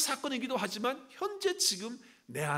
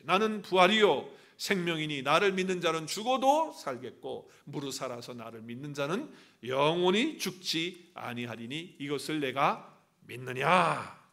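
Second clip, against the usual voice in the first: scripture reading; 3 semitones lower, 5 dB louder than usual. Real, not acted. Leads congregation in reading scripture aloud.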